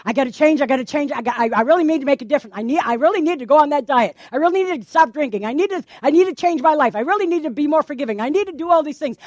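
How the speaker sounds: hurried resolutions. Retold or imitated. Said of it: "How many times do you say".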